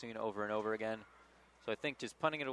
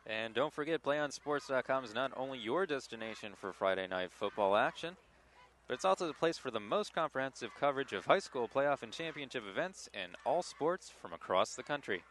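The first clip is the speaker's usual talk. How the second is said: polished sports network ad read; promo read; 3 semitones higher than usual. Acted. Commentator plugging the network to game viewers, promo read.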